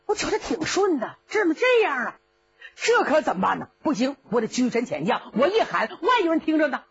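cocky threats sliding into helpless whining; bluster, then lose heart; bluffing Cheng Yaojin. Acted. (程咬金虚张声势又泄气)

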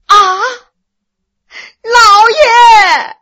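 high, loud anguished cry breaking into sobs; crying shout. A narrator's reading. Wife discovering her husband's death, screaming cry. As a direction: wail his name as the shock hits. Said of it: "杨夫人是大叫一声".

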